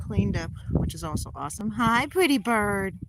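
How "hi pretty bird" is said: slow, drawn-out sweet pet greeting; cooing hello. Real, not acted. Owner greeting her bird, slow cooing pet voice.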